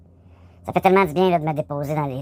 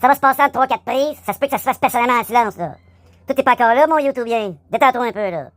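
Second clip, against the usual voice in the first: fast voice; 5 semitones higher than usual. Shown as a demonstration. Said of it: "à la voix rapide".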